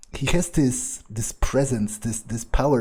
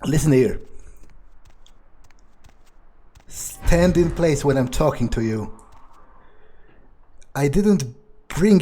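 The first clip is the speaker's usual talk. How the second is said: domineering scolding, a bit louder; angry vampire master; 3 dB louder than usual. Acted. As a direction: put the lazy servant in her place. Vampire berates his ghoul.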